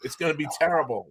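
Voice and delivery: high, excited first-name banter with the ref; chummy fan heckle. Retold or imitated. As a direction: groan to the ref like an old pal. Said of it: "they say".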